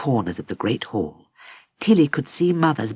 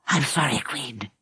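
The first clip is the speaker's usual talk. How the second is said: hoarsely; 7 dB quieter than usual. Acted. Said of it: "he said hoarsely".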